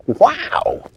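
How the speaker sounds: high, loud wow; amazed wow. Acted. The children land after the sleigh ride, high amazed. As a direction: gasp with delight.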